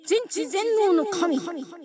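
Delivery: put-on creaky wise old man. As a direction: pronounce like an ancient wise deity. God character announces corner. (威厳ある老神の口調)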